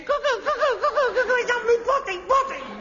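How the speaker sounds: high, laughing cuckoo calls; manic cuckoo imitation. Son showing his father how the clock gets to him, manic. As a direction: mimic the cuckoo, half laughing.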